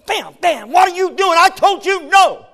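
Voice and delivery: high, loud alarmed scolding; scolding yell. Retold or imitated. Preacher as parent to his toddler, loud high scolding. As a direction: snap at the kid like a panicked parent. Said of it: "I ran up there and went".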